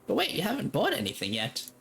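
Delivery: high-pitched seller's protest; eager saleswoman. Acted. Woman stops a departing customer, eager saleswoman.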